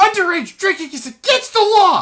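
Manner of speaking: put-on very high, loud, piping child voice. Voicing a kid who pipes up in a tavern: child voice. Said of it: "the kid pipes up and says".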